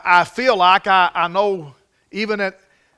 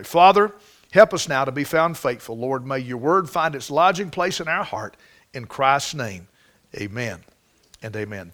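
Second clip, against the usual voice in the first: short prayer; 5 semitones lower than usual. Real, not acted. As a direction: lead the congregation in a hushed, earnest prayer.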